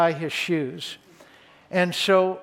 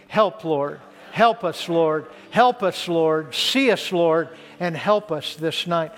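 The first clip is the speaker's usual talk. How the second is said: a repeated plea, each Help lifted and each Lord let fall; congregational prayer. Acted. Pastor leads the congregation in a plea for help. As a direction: pray it aloud with the room. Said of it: "Just say it with me".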